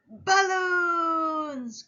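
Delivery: high, loud delighted shout; excited cry. A narrator's reading. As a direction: call out the word like a thrilled kid. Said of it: "cries Boo".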